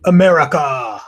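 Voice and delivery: words stretched slowly through a yawn. Real, not acted. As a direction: talk through a big real yawn. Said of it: "I don't know why I'm doing that".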